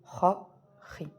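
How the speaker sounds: Ra, Ri said loud and clear, throaty r; syllable drill. Shown as a demonstration. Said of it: "on va prononcer Ri".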